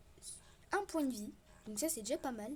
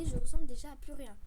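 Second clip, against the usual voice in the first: "je ressemble déjà à plus rien" belted out much louder; loud exasperated; 12 dB louder, faster than usual. Real, not acted. Gamer laughs at his ruined skin before the game starts, loud outburst. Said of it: "Déjà, le jeu n'a même pas commencé".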